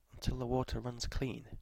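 soft, puzzled murmur; confused murmur. A narrator's reading. Woman puzzling over the river man's words, murmuring. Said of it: "she murmured in confusion".

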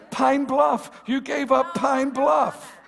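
loud, laughing shout; laughing tease. Real, not acted. Preacher teasing a congregant about Pine Bluff, laughing and loud.

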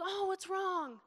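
high-pitched sympathetic coo; imitating kind concern. Partner asks his crying wife what's wrong, tenderly imitated. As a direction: lightly imitate a caring partner. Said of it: "He's so nice to me".

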